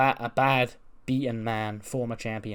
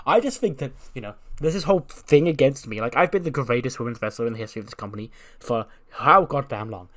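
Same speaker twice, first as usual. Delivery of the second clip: raised, loud self-pitying rant; ranting diva; 2 semitones higher, 5 dB louder than usual. Retold or imitated. Becky ranting to Kiana about being held down, loud. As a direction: vent like the whole world's against you.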